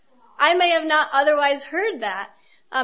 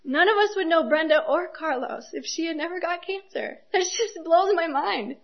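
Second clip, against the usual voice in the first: holding back tears; 4 semitones higher than usual. Real, not acted. Preacher moved to tears telling the congregation about Brenda. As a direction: voice catching with real tears. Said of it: "I don't know why I'm crying".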